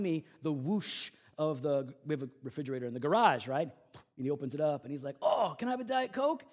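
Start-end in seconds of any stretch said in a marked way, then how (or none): 5.2-6.4 high-pitched hopeful request; excited kid. Retold or imitated. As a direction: imitate a boy who just spotted a treat. Boy spots soda, asks excitedly.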